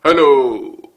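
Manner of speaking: हेलो said low and heavy; a deep low हेलो; deep hello. Shown as a demonstration. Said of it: "difference between sharpness of the sound".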